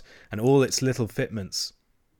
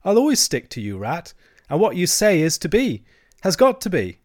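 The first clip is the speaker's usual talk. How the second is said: higher, earnest assurance; loyal Mole; 7 semitones higher, 5 dB louder than usual. A narrator's reading. Mole promising to stick to Rat, loyal. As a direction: pledge it firmly in a high voice. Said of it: "said the Mole loyally".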